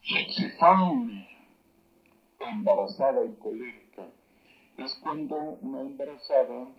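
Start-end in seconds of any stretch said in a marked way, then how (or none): 0.0-1.3 Sexifame drawn out slow and louder; slow demo word. Shown as a demonstration. Teacher sounds out a phrase for the class, very slow. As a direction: say Sexifame very slowly. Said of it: "aquí nuevamente voy a decir".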